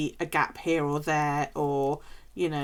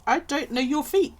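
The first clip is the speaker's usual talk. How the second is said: emphatic refusal; 9 semitones higher, 6 dB louder, slower than usual. Retold or imitated. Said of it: "And I'm like".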